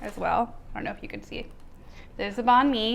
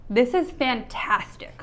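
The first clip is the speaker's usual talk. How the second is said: slow, shouted, stressing is; emphatic recommendation; 3 semitones higher, slower than usual. Real, not acted. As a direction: sell it to the viewers, drawn out. Recommending the sandwich to viewers.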